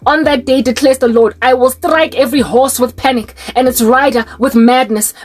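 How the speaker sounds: measured Bible reading voice; solemn recital of Zechariah; scripture reading. Acted. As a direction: read it like a prophecy from the pulpit. Reads Zechariah scripture aloud.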